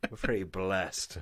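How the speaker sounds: a light sarcastic echo of the friend's line; mocking repeat. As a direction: parrot his words back to tease him. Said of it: "Did you really just say that?".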